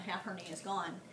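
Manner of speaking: low, hushed confiding voice; imitated whisper. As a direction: drop it right down, as if confiding. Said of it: "I whispered to him".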